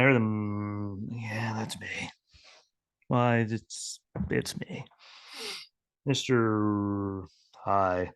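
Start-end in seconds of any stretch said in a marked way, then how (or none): 1.1-4.9 imitated hushed reply. Imitates people answering to mangled names. 6.1-8.1 very drawn-out, stuck on the name; imitated stalling. Acts out stalling on hard names.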